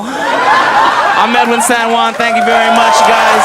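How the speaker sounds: loud, slow sign-off over the crowd; comic yells goodbye to audience; sign-off shout. Real, not acted. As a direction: shout your name and thank them.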